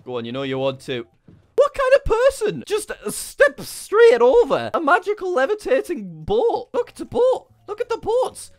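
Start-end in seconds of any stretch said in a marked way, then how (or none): 1.6-8.5 exasperated coaxing. Real, not acted. Coaxing stubborn llama into boat.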